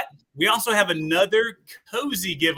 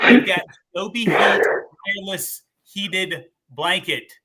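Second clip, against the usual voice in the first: slow, hushed reveal whisper; dramatic whisper; 2 semitones higher, 6 dB louder, slower than usual. Acted. Host unveiling the giveaway blanket to viewers, slow dramatic whisper. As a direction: whisper the prize name like a big secret.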